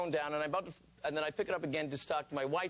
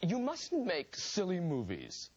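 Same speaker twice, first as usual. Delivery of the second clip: slow, grave, each word weighed; slow stern warning; 3 semitones higher, slower than usual. Retold or imitated. Older actor scolding Martin, slow and grave. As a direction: lay it down like a solemn warning. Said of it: "he said".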